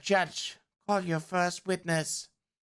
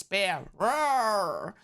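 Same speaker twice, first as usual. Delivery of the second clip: bear roar; 2 semitones higher than usual. Acted. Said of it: "The bear reacts".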